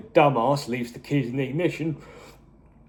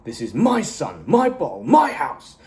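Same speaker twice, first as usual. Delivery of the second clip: squaring up; 3 semitones higher, 3 dB louder than usual. Retold or imitated. Walt squaring up to Hank over the bottle, angry build to a shout. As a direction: square up to him, getting louder on each my. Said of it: "tries to square up to him".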